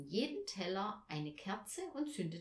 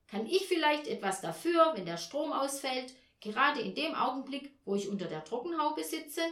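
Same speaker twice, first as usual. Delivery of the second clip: higher, louder, aggrieved question; vehement indignation; 5 semitones higher, 6 dB louder than usual. A narrator's reading. Mother defending herself over the power cut, vehement indignation. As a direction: protest indignantly, pitch raised. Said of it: "sagte sie heftig".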